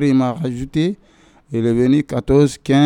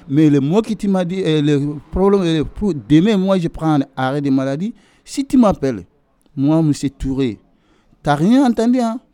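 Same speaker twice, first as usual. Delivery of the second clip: retold heated warning; 4 semitones higher, 3 dB louder than usual.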